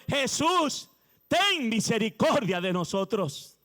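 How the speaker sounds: slow, drawn-out plea for mercy; lepers crying for mercy. Retold or imitated. Preacher voicing the lepers begging Jesus, slow pleading cry. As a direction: stretch out the cry like a desperate leper. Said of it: "Ellos dijeron".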